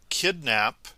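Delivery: usual speaking voice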